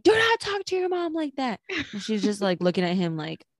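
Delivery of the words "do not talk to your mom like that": mock stern father, pitched well up; stern dad. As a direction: scold her like an imitated strict dad. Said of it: "And he was like".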